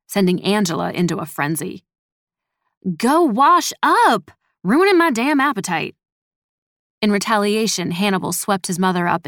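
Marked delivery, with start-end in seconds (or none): 3.0-5.9 loud, high, drawn-out mother's yell; scolding yell. A narrator's reading. Mother ordering her smelly son to wash up, scolding yell. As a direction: holler it as a frenzied, fed-up mom.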